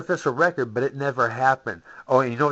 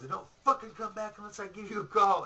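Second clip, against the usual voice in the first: retold yell; 8 semitones higher, 6 dB quieter than usual. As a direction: belt it at the cops as they leave. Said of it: "I yelled at the top of my lungs".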